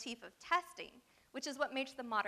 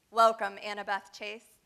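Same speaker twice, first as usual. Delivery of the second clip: louder, a loud welcoming cry; monster cries out; 9 dB louder than usual. Acted. The Sphinx greets Annabeth at the test, loud welcoming cry. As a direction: call out the welcome like a host on stage. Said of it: "the monster cried".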